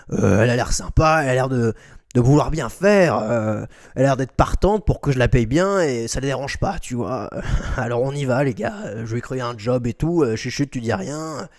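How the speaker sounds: low, hushed sleazy boss; a lightly voiced creepy old boss. Imitates McMahon to staff.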